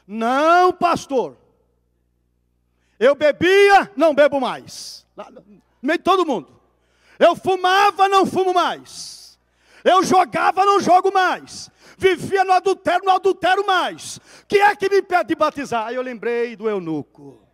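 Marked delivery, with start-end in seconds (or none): 0.1-5.1 mais alto e agudo, cheio de convicção; declaração em voz alta. Retold or imitated. Homem gritando diante da igreja. 7.2-15.9 bem mais alto e agudo, quase gritando; grito de convicção. Retold or imitated. Homem gritando diante da igreja.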